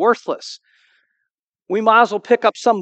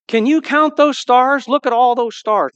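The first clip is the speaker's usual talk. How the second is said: voice of God; 7 semitones higher, 5 dB louder than usual. Retold or imitated. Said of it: "God says to him".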